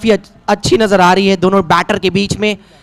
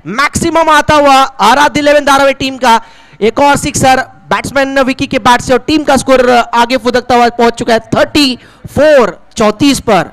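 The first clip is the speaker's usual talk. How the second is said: excited commentary; 5 semitones higher than usual. Real, not acted. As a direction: lift it for the maximum. Six hit, commentator rises. (उत्साहित ऊँची commentary)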